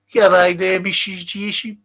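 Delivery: Australian greeting with a Brummie tinge; Australian-Brummie accent. Shown as a demonstration. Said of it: "a Brummie accent".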